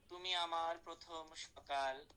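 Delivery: তুমি আমার প্রথম সকাল read slowly, like a line of poetry; slow recited example. Shown as a demonstration. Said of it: "আমি বলি". (ধীরে আবৃত্তির ঢঙে বলা)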